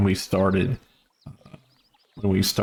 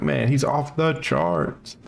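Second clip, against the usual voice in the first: awed announcer voice; 5 semitones higher, slower than usual. Retold or imitated. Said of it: "It's like".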